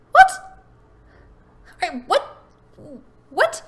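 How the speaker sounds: stunned double take; surprised. Real, not acted. Stunned by landlord's advice.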